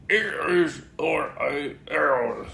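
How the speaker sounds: lightly voiced bouncy Tigger; a hint of excited Tigger at the mirror. Tigger with mouth full.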